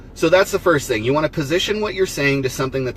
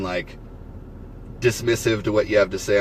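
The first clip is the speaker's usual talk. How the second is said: talking through the hiccups; hiccuping between words. Real, not acted. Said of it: "I have the hiccups".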